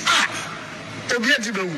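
alarmed shout at the crowd; retold alarmed shout. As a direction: call out that someone's dying.

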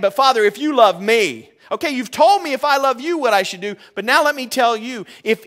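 hammed-up pleading believer, high and loud; mock whiny prayer. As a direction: beg God like a bargaining child. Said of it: "You wanna know what we say".

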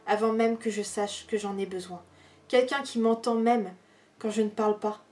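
measured poem reading with long pauses between verses; poetry reading. Acted. Reading favourite poems aloud to viewers, measured poetry recital.

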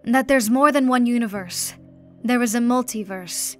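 chained duke shouting his defiance at the emperor; defiant shout. Acted. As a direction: shout the heresy at the throne. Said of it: "shouted the Duke".

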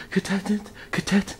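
rising ring announcer build. Acted. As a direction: hype it up like a fight announcer. Announcer voice rising each repeat.

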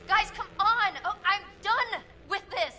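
frustrated shout. Real, not acted. Shouting at the silent figures.

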